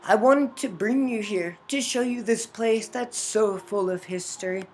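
composed mother figure in a story; mother character, gracious host. Acted. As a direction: play the mother showing someone round. Voices game's mother character.

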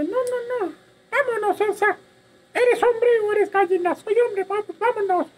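a hint of a scared kid trying to sound brave; scared boy pleading. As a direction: beg to turn back, mock frightened. Scared boy refuses cemetery.

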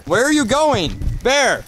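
high, exasperated shout after him; calling after someone. Acted. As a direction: shout after the man wandering off. Calling after man leaving.

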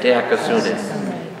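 slowly sounded Diakosune; teaching Diakosune syllable by syllable, drawn out; drawn-out Greek word. Shown as a demonstration. Preacher teaching the congregation a Greek word, slow and deliberate. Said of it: "Everybody say it?".

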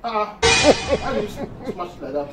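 muffled words between bites; talking while chewing. Real, not acted. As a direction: mouth partly full of food. Seen 0: Man put fufu in mouth at -1; jaw working while speaking.

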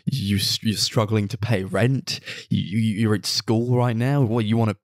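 exasperated mock tirade ending in laughter; mock incredulity. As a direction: start level, build to high-pitched disbelief. Acting out girlfriend's incredulous rant.

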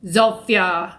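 very slow, stiff reading of the name; mock a bored narrator dragging the word out; wooden slow narrator. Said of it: "he's so slow when he speaks".

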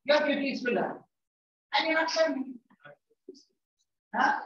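annoyed teacher berating the class; exasperated scolding. Real, not acted. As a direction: scold the student, clearly fed up. Teacher scolding a distracted student.

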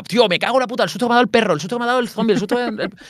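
high, laughing at the scares; mock excited fright. Gamer recounting scares in a zombie game, high excited.

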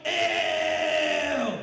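slow drawn-out mock yell; mock Willie yell. Comedian imitating Willie yelling in Kmart. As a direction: ham up Willie's shocked yell. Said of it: "Willie yells".

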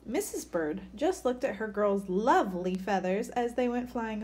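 put-on lively picture-book read-aloud for kids; story reading. A narrator's reading. Teacher reading a bird story to children, lively. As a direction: read it like story time for a class.

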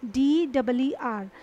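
डी डबल ई आर, each letter slow and separate; slow spelling. Shown as a demonstration. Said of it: "उसका spelling जो है वो क्या है". (धीरे धीरे स्पेलिंग)

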